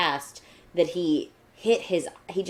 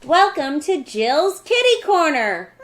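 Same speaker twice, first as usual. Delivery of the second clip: newscaster voice; 11 semitones higher, 10 dB louder than usual. Pretend. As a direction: present it like the evening news. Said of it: "I'm talking like a newscaster".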